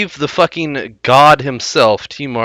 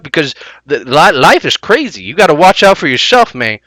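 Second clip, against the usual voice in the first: T Martin parody. Retold or imitated. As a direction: ham up a smug, lisping streamer. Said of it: "I watched what T Martin had to say".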